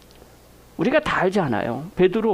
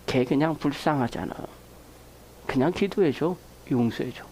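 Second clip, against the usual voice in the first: soft gentle urging; 6 semitones lower, 6 dB quieter than usual. Retold or imitated. God's gentle advice voiced.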